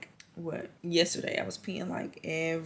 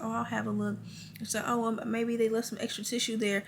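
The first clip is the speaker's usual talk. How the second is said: lightly voiced nurse, a little higher; 5 semitones higher than usual. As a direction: do the nurse, casual and breezy. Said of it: "And so she's like".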